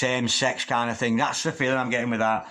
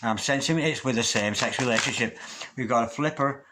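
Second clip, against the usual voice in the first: normal talking voice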